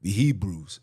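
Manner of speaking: low, mocking dude voice; mocking their voice. Mocking the know-it-alls who correct him, low mock voice. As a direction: drop it low to mock them. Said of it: "tell me that".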